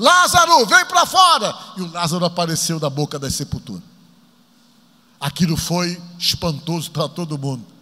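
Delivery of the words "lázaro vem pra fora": high, loud commanding shout. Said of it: "foi que ele gritou".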